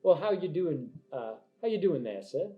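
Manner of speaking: big jovial in-character hello; hearty knight. Acted. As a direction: greet an old comrade with gusto. Game master greets player as Abraham.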